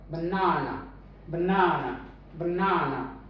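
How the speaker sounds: बनाना with weak ब and long ना in the middle; stress on middle syllable. Shown as a demonstration. Teacher repeats बनाना, stress on middle ना. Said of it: "वो रहेगा ना पर".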